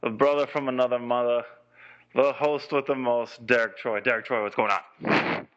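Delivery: big booming show intro; announcer voice. Acted. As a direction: announce him like a hype man. Radio host introduction.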